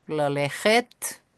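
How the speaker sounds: "lalechet" again drawn out slowly, rising; slow repeat. Shown as a demonstration.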